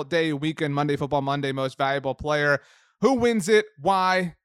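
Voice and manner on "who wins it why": rising, louder challenge; dramatic challenge. Acted. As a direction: put it to her with fanfare.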